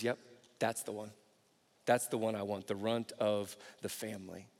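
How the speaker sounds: soft God voice. Retold or imitated. God choosing David, voiced softly.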